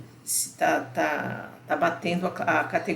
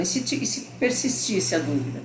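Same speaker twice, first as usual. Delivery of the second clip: lightly voiced doubting student; imagined student question. Teacher voicing a viewer's doubt, lightly puzzled. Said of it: "você pode estar perguntando".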